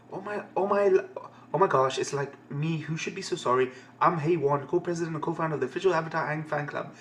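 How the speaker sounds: run-on fangirl gush, only lightly put on; a touch of starstruck fan chatter; lightly voiced fangirl. Fan club co-president introduces herself to Aang, lightly voiced fangirl. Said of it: "the shy one's fangirling".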